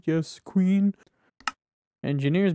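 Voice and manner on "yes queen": sassy cheer. Pretend. Cheering at finding the manual.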